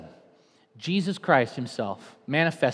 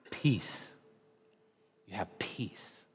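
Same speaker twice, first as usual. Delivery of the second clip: much softer and lower; soft peaceful close; 7 semitones lower, 12 dB quieter than usual. Acted. Pastor closing on peace, soft and low. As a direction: let the words settle gently.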